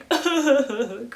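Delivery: high, loud mock sobbing; short acted cry-out; imitated crying. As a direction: burst into pretend wailing. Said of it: "cried it out a little bit".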